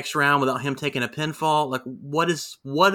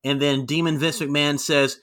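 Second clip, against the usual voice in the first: ordinary talk, nothing marked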